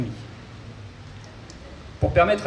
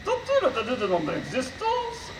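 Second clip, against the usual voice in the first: high robot voice with garbled consonants; 5 semitones higher than usual. Acted. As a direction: mangle the consonants like a glitchy robot. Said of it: "souffre d'une pathologie vocale".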